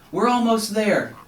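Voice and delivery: high, loud encouraging call. A narrator's reading. Rescuer reassures frog, high loud call. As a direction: shout reassurance over the storm.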